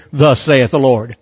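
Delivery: low, slow, unsure Thus saith the Lord; mock timid. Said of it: "who am I to say that".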